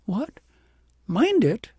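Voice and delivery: how could you think that?; almost indignant. A narrator's reading. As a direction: princess protesting the child's question. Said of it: "almost indignantly".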